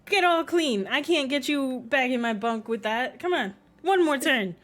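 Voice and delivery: loud hammed-up Southern accent, urging the gator; Southern cowboy coaxing. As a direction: call to the pet gator like a rowdy cowboy. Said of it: "He's like".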